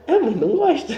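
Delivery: high-pitched, laughed-out retelling of a nervous admission; retold giggly protest to mom; laughing nervously. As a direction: imitate admitting it through nervous laughter. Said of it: "eu falava rindo".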